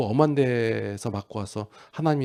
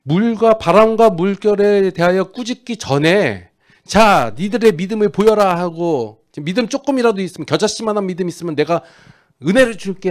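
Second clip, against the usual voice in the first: loud, high rhetorical questioning; preach; 8 semitones higher, 9 dB louder than usual. Real, not acted. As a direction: drive the question home to the congregation. Preaches at full force. (힘주어 외치는 설교조)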